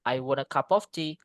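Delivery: "I want a cup of tea" with no word stressed; level out every word, no emphasis; flat delivery. Shown as a demonstration. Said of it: "itu kayak flat gitu". (datar tanpa penekanan kata)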